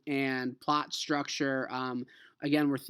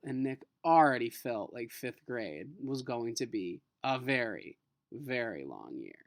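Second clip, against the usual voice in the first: reading a chapter aloud to the class; steady read-aloud storytelling; teacher reading a novel to students; story narration. Acted.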